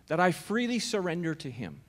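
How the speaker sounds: "freely" set out with a little lift, the rest falling away; stress on freely. Real, not acted. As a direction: lean on the word "freely". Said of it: "Emphasis on that word freely".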